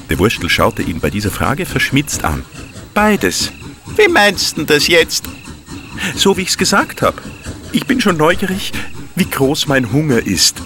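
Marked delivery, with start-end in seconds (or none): 2.9-10.6 cheeky high little fellow. Acted. Wurstel character voice.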